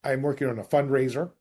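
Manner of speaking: friendly agent on the phone; cold call script. Shown as a demonstration. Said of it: "first and foremost".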